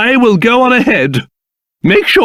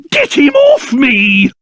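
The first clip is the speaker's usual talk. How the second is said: panicked shout; 4 semitones higher than usual. Acted. King being grabbed.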